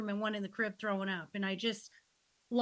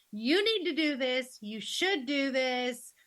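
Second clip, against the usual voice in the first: bossy mom; 2 semitones higher than usual. Retold or imitated. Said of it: "I learned not to say".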